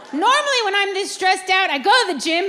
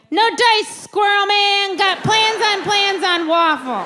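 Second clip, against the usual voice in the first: cocky brush-off; 4 semitones higher, 3 dB louder, slower than usual. Retold or imitated. Her triumphant reply quoted.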